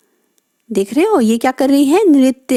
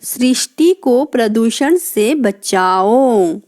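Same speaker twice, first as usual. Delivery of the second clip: सृष्टि को प्रदूषण से बचाओ, slower, words spaced out; slow repeat; slower than usual. Shown as a demonstration. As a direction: say it slowly for the class to follow. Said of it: "जब री की मात्रा लगी है". (धीरे-धीरे दोहराना)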